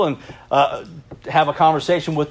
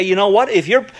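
defiant; 2 semitones higher than usual. Acted. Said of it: "get a tenacity about you and say".

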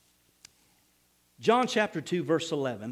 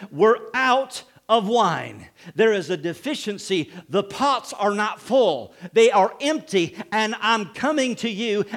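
expectant; 3 dB louder, slower than usual. Retold or imitated. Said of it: "her voice was saying".

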